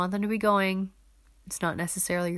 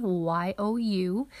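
quick run through the letters; rapid spelling; much faster than usual. Shown as a demonstration. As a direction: rattle off the letters very fast. Rattling off the handle again.

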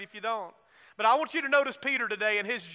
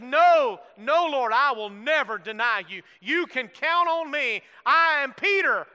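swearing oath; 4 dB louder than usual. Acted. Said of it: "Peter swore an oath and said".

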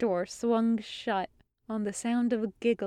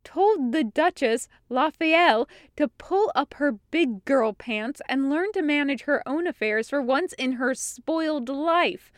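quoting; 4 semitones higher than usual. Retold or imitated. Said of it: "I quote".

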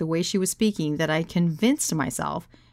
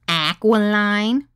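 loud "aquiline" rising into a question; mocking disbelief; 3 semitones higher, 6 dB louder, much slower than usual. Woman echoing his word, incredulous rising "aquiline". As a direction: throw "aquiline" back in scornful disbelief.

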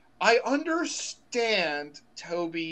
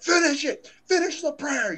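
high, louder mock villain shout; Goblin shouting; 10 semitones higher, 4 dB louder than usual. Green Goblin yelling at Aunt May mid-prayer, mock villain shout. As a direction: demand it like a gloating villain. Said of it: "he's like".

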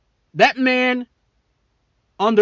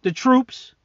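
mocking Biden; 3 semitones higher, slower than usual. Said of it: "You say".

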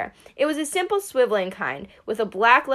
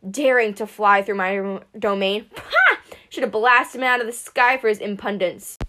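grumbling; 3 dB louder than usual. Acted. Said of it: "Zeus grumbled".

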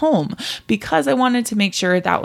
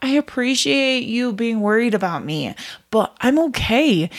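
higher, kindly reply to worry; polite, higher-pitched reassurance; nicely; 4 semitones higher than usual. Acted. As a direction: gently reassure your inner critic, pitched up. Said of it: "so you nicely say".

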